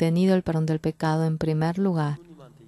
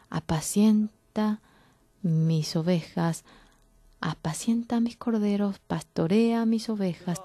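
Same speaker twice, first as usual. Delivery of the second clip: soft, nearly whispered words; gentle hush; 2 semitones higher, 5 dB quieter than usual. Acted. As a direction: speak tenderly, barely above a breath. Jesus gently repeats his charge.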